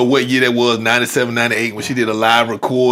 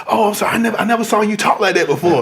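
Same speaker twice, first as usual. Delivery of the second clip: higher-pitched imitation of an apologetic man; startled onlooker; 6 semitones higher than usual. Retelling the custodian hearing tongues in the weight room, high and apologetic. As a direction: play a taken-aback bystander, pitched up. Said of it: "the little white dude looked over at me".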